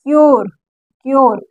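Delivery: "क्योर" modelled twice, each ending in "-yor"; teacher repeating "क्योर" as a separate word; "ure" read as "or". Shown as a demonstration. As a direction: say "क्योर" with U as an o sound. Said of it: "ओ पढ़ रहे हैं".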